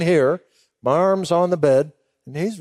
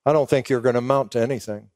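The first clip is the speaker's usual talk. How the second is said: father's dismissive verdict; 4 semitones lower, faster than usual. Retold or imitated. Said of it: "this is what he'd say".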